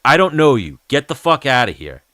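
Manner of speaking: a cop telling Dan to get lost; cop yelling. Retold or imitated. A cop shooing Dan away, mock yelling.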